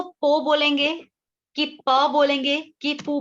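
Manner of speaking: "पो", "प", "पू" as poh, paw, poo; contrasting vowel sounds. Shown as a demonstration. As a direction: stress each option, "पो" with oh, "प" open, "पू" with oo. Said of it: "sound कैसा आ रहा है".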